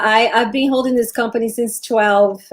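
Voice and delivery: normal talking voice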